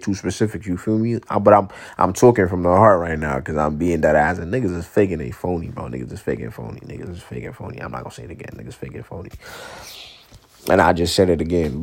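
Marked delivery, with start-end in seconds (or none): 5.8-9.3 low, very soft repeated aside; hushed, low-pitched insistence; repeated for emphasis. Real, not acted. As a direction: drop right down and repeat it under your breath. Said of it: "I had to for fucking extra".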